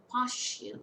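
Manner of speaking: Partial with PAR stressed, falling after; stress on first syllable. Shown as a demonstration. Teacher showing students word stress, first syllable stressed. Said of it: "Stress falls on the first syllable".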